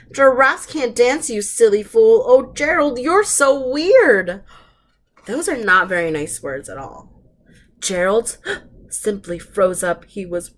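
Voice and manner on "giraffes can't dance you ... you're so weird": mocking taunt. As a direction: tease him like playground bullies. Animals taunting Gerald.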